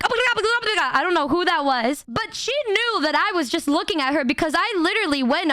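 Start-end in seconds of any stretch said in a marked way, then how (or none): 0.0-1.0 higher, mock-excited oh my god; imitating a freaking-out fan. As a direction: play the starstruck fan losing it, lightly. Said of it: "like, freaking out".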